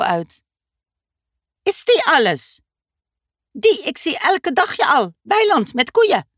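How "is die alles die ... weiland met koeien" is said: teleurgesteld. Acted. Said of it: "zei Dummy teleurgesteld".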